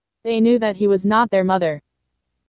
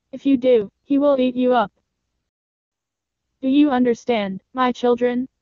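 lightly voiced mother goat, higher pitch; a careful mother's higher voice, warning; concerned mother goat; 4 semitones higher than usual. Mother goat warns her children about the wolf, concerned higher voice.

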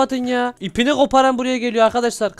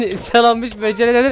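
"İshal olmuş böceğe ne denir" said through a laugh; 2 semitones higher than usual. Real, not acted. Vampire mocking the kid's bad riddle, laughing. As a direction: laugh it out in disbelief at the joke.

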